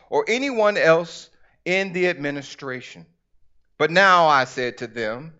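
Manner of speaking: measured, emphatic scripture reading; deliberate pulpit storytelling. Acted. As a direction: read the Bible story out to a congregation. Reads scripture aloud to congregation.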